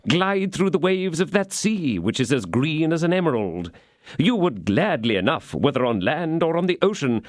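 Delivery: high, sneering melodrama villain; gloating baron. Acted. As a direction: savor every threat to the prisoner. Baron taunting the prisoner.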